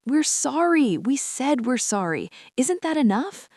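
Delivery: high, pleading through sobs; sobbing. Acted. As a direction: beg while sobbing. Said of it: "Mom sobbed harder".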